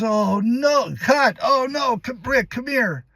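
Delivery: high, loud dismayed shouting; director calling cut. Retold or imitated. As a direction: halt the take in alarm, calling across the set. Director acted out stopping the take.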